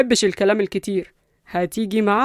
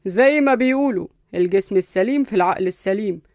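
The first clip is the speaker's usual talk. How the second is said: cool, measured lecture; understated cold condescension; coolly. Acted. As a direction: lecture them without raising your voice. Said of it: "قصي اتكلم ببرود".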